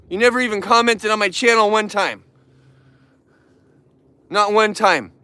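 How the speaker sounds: a wronged son calling out his family's company, indignant; heated rant. Real, not acted. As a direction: vent the grievance, voice climbing. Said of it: "it drives me crazy".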